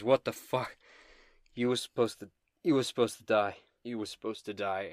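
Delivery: mildly outraged game villain; indignant disbelief. Acted. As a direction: protest in disbelief, hitting it hard. Stabbed villain in disbelief at survivor.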